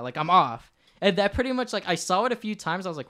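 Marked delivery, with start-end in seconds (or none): 0.2-0.7 loud flat robotic monotone. Retold or imitated. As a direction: announce it like a machine. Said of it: "he sounds like a robot".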